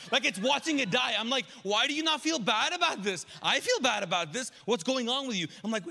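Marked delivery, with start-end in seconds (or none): 1.6-5.5 incredulous, raised scolding at the cat; lightly mock-upset rebuke of a pet; exasperated. Owner scolding her cat about the rabbit, exasperated.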